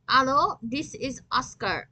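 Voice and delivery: slow, puzzled answer; unsure who's calling, words slowing; slow bewildered phone greeting; confused. Acted. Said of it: "I said, confused".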